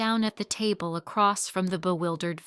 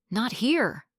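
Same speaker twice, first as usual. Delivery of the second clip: irritable; 4 semitones higher than usual. Acted. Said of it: "The manager responded irritably".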